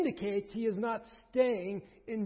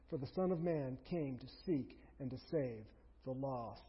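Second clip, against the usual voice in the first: steady, measured reading of the passage; scripture reading. Real, not acted. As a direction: read God's word to the congregation. Reads the Luke passage aloud.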